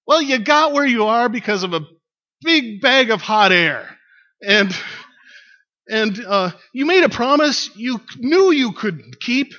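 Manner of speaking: loud, high tirade easing off at the end; acted shouted rant, fading on the punchline; shouting back. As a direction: holler the accusations up at him. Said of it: "the woman shouts back".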